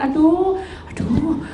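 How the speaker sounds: high, laughing plea not to be left; pleading mock prayer. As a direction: beg with a half laugh, up high. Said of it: "kalau kita merasakan".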